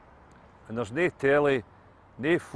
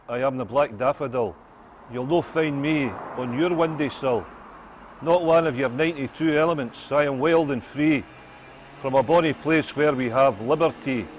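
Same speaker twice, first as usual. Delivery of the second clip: rousing Scots poem, louder, building on each Scotland; poem recital; 4 dB louder than usual. Acted. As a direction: declaim it proudly to the crowd. Recites his poem to passers-by.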